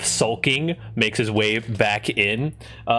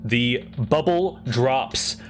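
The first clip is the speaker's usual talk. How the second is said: game master narration. Acted. GM sets combat scene.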